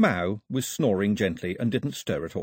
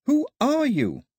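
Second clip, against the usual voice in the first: higher echoing reply; 4 dB louder, slower than usual. A narrator's reading. The voice echoes Daphne's question back to her. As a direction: throw the question back like an echo. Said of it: "The voice came back like an echo".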